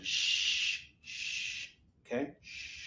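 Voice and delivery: soft breathy shushing; hushing whisper. Acted. Host shushing the audience in jest, soft whisper. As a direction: hush the room like a librarian. Hushing viewers for the staring poster.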